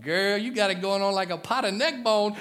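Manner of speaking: lightly imitated Southern catcaller; playful mock catcall; a hint of a flirting bull rider; flirty bull rider.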